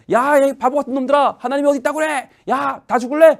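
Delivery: mocking giant. Goliath taunting the Israelite army, a sneering bully. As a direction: jeer at the cowards.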